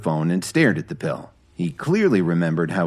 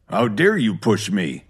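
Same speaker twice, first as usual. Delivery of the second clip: shouted; 2 semitones higher than usual. A narrator's reading. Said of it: "he shouted".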